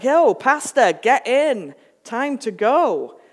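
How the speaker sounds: breezy dude in a motorboat hailing the pastor; casual rescuer. Retold or imitated. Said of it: "and he's like".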